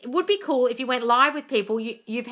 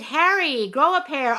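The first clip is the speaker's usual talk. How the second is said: mock Meghan Markle; 6 semitones higher, 5 dB louder, slower than usual. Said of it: "a guy is pretending to be Meghan Markle and she's like".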